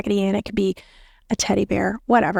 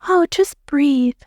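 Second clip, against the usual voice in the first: mock advice givers; 4 semitones higher, slower than usual. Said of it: "when you hear people say".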